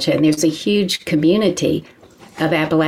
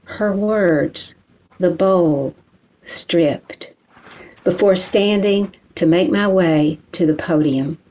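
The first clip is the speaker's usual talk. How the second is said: measured poem reading with deliberate pauses; poetry reading. Acted. Poet reads her own confessional poem to an audience, measured recital. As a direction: read it line by line, letting each phrase land.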